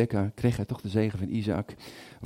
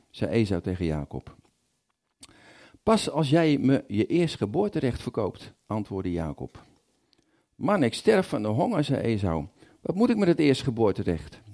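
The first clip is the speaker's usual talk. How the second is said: Bible reading. A narrator's reading. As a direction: read scripture to the congregation, acting out the speakers. Reads Genesis aloud in sermon.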